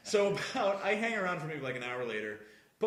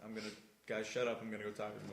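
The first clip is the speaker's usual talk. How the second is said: hushed whisper; 8 semitones lower, 12 dB quieter, faster than usual. Retold or imitated. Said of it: "she's just like".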